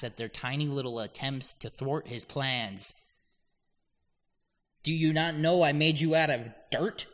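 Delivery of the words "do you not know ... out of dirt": God's mock rebuke. Voicing God mocking rebels.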